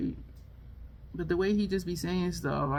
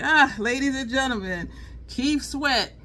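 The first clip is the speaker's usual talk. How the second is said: lightly voiced showman intro; a hint of a stage announcer; mock grand introduction; imitating nasal comedian; 3 dB louder, slower than usual. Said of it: "he was like".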